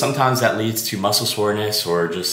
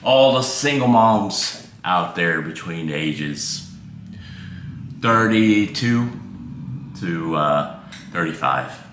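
mock dedication; 3 semitones lower than usual. Mock dedication to single moms.

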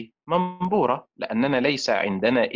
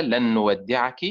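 fond farewell recital; 3 semitones lower than usual. Acted. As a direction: recite it like a tender goodbye letter. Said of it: "أقول لها".

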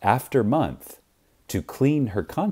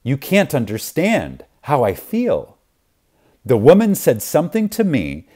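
a lighter, higher, brighter read of a joyful quote; lightly performed delight, telling of her change; radiant exclaiming; 4 semitones higher than usual. Retold or imitated. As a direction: let the glad relief lift the voice. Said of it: "radiant, and exclaimed".

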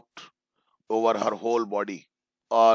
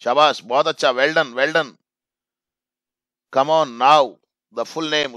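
encouraging; 3 semitones higher, 6 dB louder, slower than usual. Acted. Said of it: "teacher ने इस प्रकार से जब उसको एनकरेज किया".

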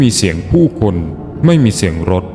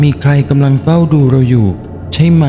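slow, higher character voice; speaking slowly; 5 semitones higher than usual. Acted. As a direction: ask it slowly, pitched up. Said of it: "รินพูดช้าๆ". (พูดช้าๆ เสียงสูง)

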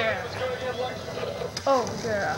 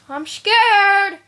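scared. Real, not acted.

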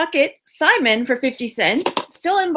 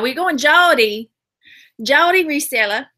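drawled Southern take at usual pitch; Southern accent. Shown as a demonstration. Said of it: "we either gotta go Georgia".

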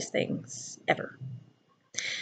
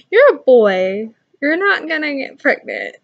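explaining gently; 4 semitones higher, 6 dB louder, slower than usual. Retold or imitated. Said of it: "And I was like".

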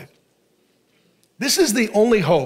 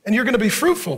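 God reassuring; faster than usual. Acted. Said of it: "God's like".

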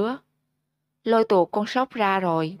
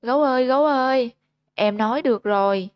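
higher and louder, fast, calling through tears; tearful crying out; 4 semitones higher, 3 dB louder, faster than usual. Acted. Sóc hugging Gấu, calling out tearfully happy. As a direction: cry his name out with joy. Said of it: "rồi cứ thế kêu lên".

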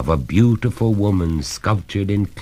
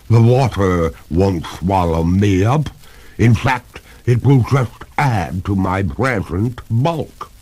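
lightly voiced ghost lady; a hint of lofty ghost, slightly raised; water ghost; 3 semitones higher, 4 dB louder than usual.

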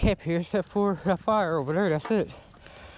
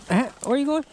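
calling out; 9 semitones higher than usual. Real, not acted. Calling after the running dog.

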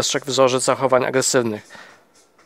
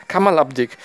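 hissed through teeth; 3 semitones higher than usual. Acted.

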